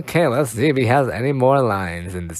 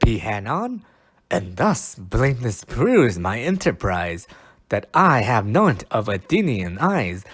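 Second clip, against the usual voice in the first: dramatic Shakespeare reading. Acted. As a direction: proclaim it like a stage actor. Restarted reading.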